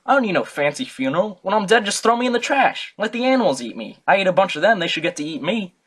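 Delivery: a loud, mocking take on the old philosopher; mock Diogenes. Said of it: "he was like".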